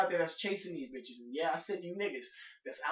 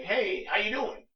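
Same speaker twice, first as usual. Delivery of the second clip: louder, slow, stiff "Hey, how you doing?"; dull greeting; 4 semitones higher, 6 dB louder, slower than usual. Shown as a demonstration. "Hey, how you doing?" as a stiff opener to a woman online, said slow and loud. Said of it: "It kinda sounds retarded when you say".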